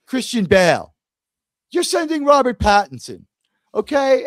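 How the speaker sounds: mock outrage. Mock-outraged rant about British Batman.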